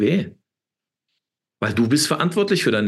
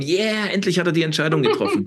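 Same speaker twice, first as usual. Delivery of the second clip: mock angel cheer; 6 semitones higher than usual. Angels cheer at his decision.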